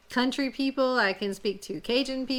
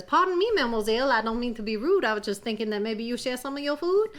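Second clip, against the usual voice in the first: sly gator voice; 2 semitones higher, faster than usual. Acted. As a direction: sweet-talk her like a sly gator. Gator Claude politely asks.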